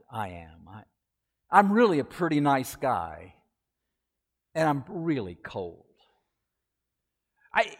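lightly voiced snake, coaxing and sweet; a hint of a wheedling serpent pleading to be let in; soothing snake. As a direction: coax the man like a smooth-talking snake. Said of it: "said in a very soothing voice".

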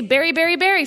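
"berry, berry, berry" all with one identical E; "berry" repeated identically, mock-American; all vowels alike. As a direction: rattle off "berry" three times, no difference in vowel. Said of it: "every vowel have the same sound".

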